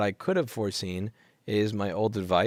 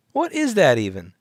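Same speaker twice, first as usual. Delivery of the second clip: incredulous shout; 5 semitones higher, 9 dB louder than usual. Real, not acted.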